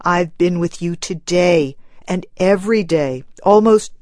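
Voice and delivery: husband pleading with his wife to stop mourning; gentle pleading. Acted. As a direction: reason with her tenderly. Husband comforting grieving wife.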